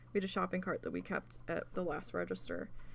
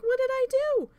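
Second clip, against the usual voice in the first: very high, loud cry of protest; bewildered protest; 9 dB louder than usual. Retold or imitated. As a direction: re-enact being yelled at for nothing. Retold protest to screaming manager.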